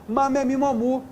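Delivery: "Má, mé, mi, mó, mu" recited as an even syllable drill; demonstrating M sound. Shown as a demonstration. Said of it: "tem que produzir qual som".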